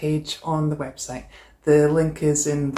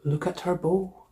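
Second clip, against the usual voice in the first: lively storybook read-aloud; animated picture-book narration; reading to children; slower than usual. A narrator's reading. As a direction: read it like story time for a class. Teacher reads picture book aloud.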